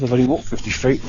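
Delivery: slightly winded talk; out of breath. Real, not acted. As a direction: speak a bit short of breath. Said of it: "I'm out of breath".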